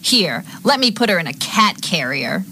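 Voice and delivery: slow, high, theatrical meanness; mean. Acted. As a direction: draw it out meanly. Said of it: "you say this kind of meanly".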